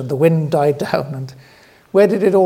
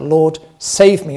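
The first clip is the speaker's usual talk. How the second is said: slow, louder plea for rescue; crying out; 6 dB louder, slower than usual. Retold or imitated. Peter sinking in the storm, crying out to the Lord. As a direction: call out for help. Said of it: "Peter cries out".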